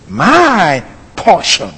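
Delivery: slow. Shown as a demonstration. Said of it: "So he said".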